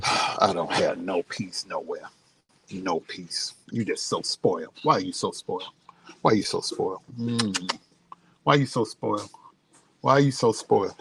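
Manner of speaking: playful low grumble at a pampered dog; mock scolding the dog. Real, not acted.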